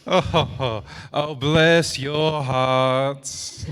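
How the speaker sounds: amused chuckle. Acted. Bread laughing at both.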